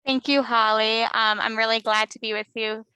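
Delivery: muffled by a face mask; speaking through a mask. Real, not acted. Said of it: "please pardon my mask".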